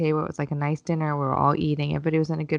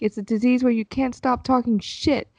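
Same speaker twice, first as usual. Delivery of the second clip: put-on teen sass; 6 semitones higher, 4 dB louder than usual. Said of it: "my almost thirteen-year-old was like".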